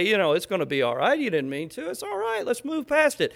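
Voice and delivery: a touch of tender comfort. Retold or imitated. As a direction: soothe the child gently. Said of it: "put my arm around them and say".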